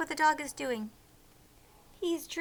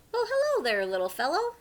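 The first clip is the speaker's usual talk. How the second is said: cheerful; 4 semitones higher, faster than usual. Acted. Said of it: "Gilbert called out cheerfully".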